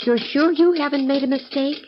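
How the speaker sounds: high, bright-eyed feigned disbelief; innocent surprise. Acted. Accused forger to sergeant, feigned innocent surprise.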